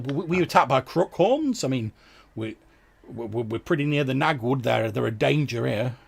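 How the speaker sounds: loud, high, stammering villager; alarmed fisherman. Acted. Fisherman asking injured travellers about an attack, alarmed.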